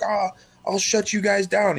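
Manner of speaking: high, whiny empty threat; mock customer threat. Retelling a customer threatening the restaurant owner, high mock whine. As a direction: sneer it up high like a petty complainer. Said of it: "they'd be like".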